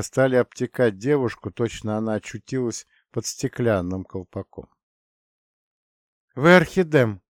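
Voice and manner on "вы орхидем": испуганно лепечет имя; пролепечи в страхе; babbling. A narrator's reading. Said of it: "пролепетала Диана". (испуганный лепет)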